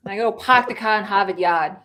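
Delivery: light Boston accent, dropped r in park car Harvard Yard. Shown as a demonstration. American guest demonstrates a Boston accent for the host, lightly. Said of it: "That's your Boston accent".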